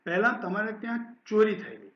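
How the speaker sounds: steady, clear story narration; story reading. A narrator's reading. Teacher reading a Gujarati story aloud to students, steady narration. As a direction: read the story to the class.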